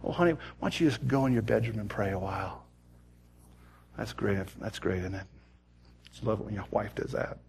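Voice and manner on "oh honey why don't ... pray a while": kind and sweet. Retold or imitated. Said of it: "being kind and sweet".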